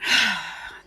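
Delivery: long, low exhaled sigh; letting-go sigh. Retold or imitated. Meditator settling under a blanket, resigned sigh. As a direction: breathe out and give in.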